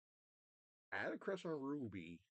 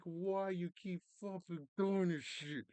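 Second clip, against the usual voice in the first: high, loud protest at the writers; exasperated outcry; 7 semitones higher, 5 dB louder than usual. Acted. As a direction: burst out in high-pitched, indignant complaint. Acted outcry at repeated plot.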